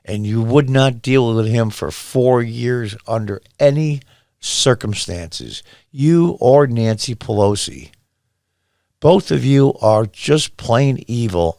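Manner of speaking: slow, deliberate condemning words; measured, slowed-down indictment; slow accusation. Real, not acted. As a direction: lay out the charge word by word.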